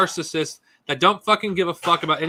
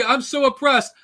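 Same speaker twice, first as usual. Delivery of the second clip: mock whine; 5 semitones higher than usual. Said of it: "It's like".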